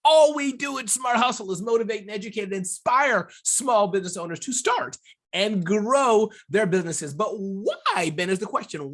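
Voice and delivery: punchy, animated show-opener delivery; podcast intro. Real, not acted. Host welcoming the audience to the podcast, punchy intro. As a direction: sell the show with big swings of pitch and emphasis.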